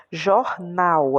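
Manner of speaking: Jornal with the final "nal" drawn out; stress on last syllable. Shown as a demonstration. Teacher showing pupils the stressed syllable, stress on "nal" in Jornal. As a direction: push harder on the "nal" of Jornal. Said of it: "um pouquinho mais de força pra falar o nau".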